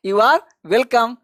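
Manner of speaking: very slow, each word drawn out for students; slow demo. Shown as a demonstration. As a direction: spell it out slowly for learners. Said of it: "ये चारों का जवाब आपको देना है". (धीमे-धीमे, साफ़ बोलकर)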